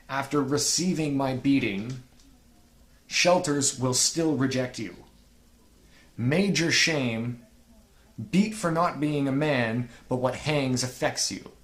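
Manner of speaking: slow, halting reading of the bar with long pauses; a hint of a flat, awkward rap read; imitating the bad delivery. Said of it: "it might seem like I was fucking up reading that".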